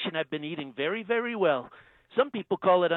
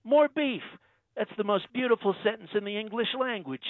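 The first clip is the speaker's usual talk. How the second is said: Trump impression; 3 semitones higher than usual. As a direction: play the president, smug and self-assured. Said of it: "Donald Trump".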